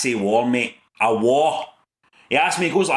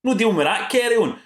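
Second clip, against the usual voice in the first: Caesar; 8 semitones higher than usual. Retold or imitated. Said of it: "he's like".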